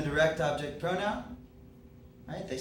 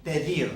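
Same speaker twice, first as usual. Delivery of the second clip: "pedir" stressed on its final syllable, -dir; stress on the last syllable. Shown as a demonstration. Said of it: "This verb on its own sounds like".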